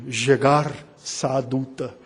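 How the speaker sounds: Jegar Saaduta said slowly in a mock Aramaic accent. Shown as a demonstration. Pastor mocking Laban's Aramaic name, slow mock Aramaic accent. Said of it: "no meu sotaque aramaico".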